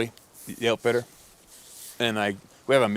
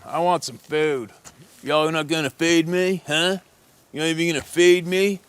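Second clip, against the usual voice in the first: demanding junkie; 8 semitones higher, 6 dB louder than usual. Retold or imitated. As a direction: whine it up high and loud, dragging the words. Junkie stumbling around demanding food.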